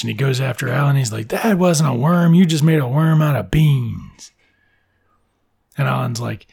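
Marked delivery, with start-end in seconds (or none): 1.3-4.3 louder, drawn-out mock outrage; indignant. Boy accusing his rival of cheating him, indignant. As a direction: protest the cheat, stretching the words out.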